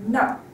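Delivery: "no" short, dropping sharply; firm falling tone. Shown as a demonstration. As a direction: say "no" firmly with falling pitch. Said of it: "firm and falling tone".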